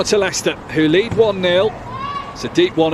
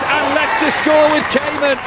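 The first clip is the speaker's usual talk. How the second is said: goal call; 4 semitones higher than usual. Real, not acted.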